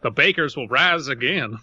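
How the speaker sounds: hammed-up battle cry; mock rallying shout. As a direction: declare it like a villain's comeback. Mock villain proclamation.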